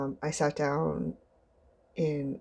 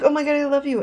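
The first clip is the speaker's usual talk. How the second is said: high, loud mock squeal; hammed-up fangirl outburst; gushing fan; 11 semitones higher, 9 dB louder, faster than usual. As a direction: imitate a fan squealing with adoration. Imitates an adoring fan.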